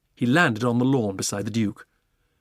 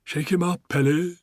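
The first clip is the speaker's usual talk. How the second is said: higher eager cry; giraffe crying out; 6 semitones higher, 4 dB louder than usual. Acted. Giraffe egging on the pelican, eager cry. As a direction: urge him on excitedly. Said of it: "cried the giraffe".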